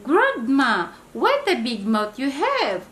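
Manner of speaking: put-on girl terrified by the wolf's mouth; trembling shriek. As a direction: shriek it out in fear. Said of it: "Trembling, Little Red Riding Hood shrieked".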